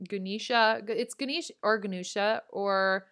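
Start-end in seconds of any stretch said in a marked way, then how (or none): 0.1-0.8 "Ganesha" said guh-NEE-shuh; long "ee" in "Ganesha", with a final uh; variant pronunciation. Shown as a demonstration. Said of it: "I've heard". 1.8-2.4 "Ganesha" said guh-NOO-shuh; long "oo" in the middle of "Ganesha"; variant pronunciation. Shown as a demonstration. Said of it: "pronounce his name differently".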